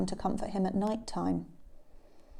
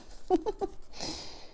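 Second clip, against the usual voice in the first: high, soft breathy giggle; small giggle after a silly voice; short chuckle; 10 semitones higher, 8 dB quieter than usual. Real, not acted. Reader laughs after silly voice.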